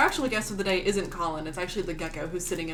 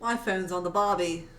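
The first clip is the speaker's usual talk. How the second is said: bad Australian accent; slower than usual. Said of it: "that was a really bad Australian accent".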